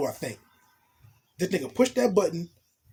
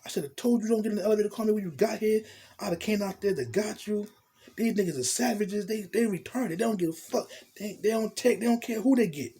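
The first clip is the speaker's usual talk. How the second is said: voicing the woman higher, scolding and worried; a lightly voiced, higher fretful woman; girl's worried voice; 5 semitones higher than usual. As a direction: play the anxious girlfriend fussing over him. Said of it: "She's like".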